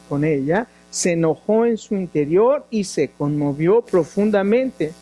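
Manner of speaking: measured, even Bible-reading voice; scripture reading. Acted. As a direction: read the passage steadily to the congregation.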